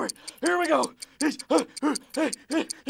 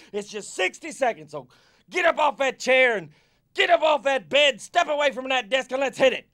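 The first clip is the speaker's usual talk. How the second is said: ordinary delivery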